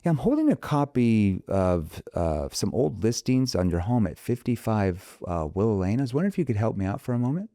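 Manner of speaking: light, casual agent call; breezy real-estate opener; relaxed, friendly phone pitch; familiar tone opener. Shown as a demonstration. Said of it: "calling on expired listings".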